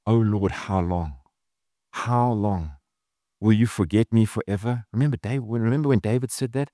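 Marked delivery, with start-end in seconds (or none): 0.0-4.8 lament. Acted. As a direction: drag out the lament, grieving. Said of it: "a Godward moaning and groaning".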